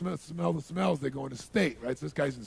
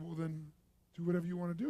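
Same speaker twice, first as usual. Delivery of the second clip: composed, easygoing permission; mild, unruffled tone; acted calm; 3 semitones higher, 3 dB quieter, faster than usual. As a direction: let them off calmly. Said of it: "I'd act really calm again".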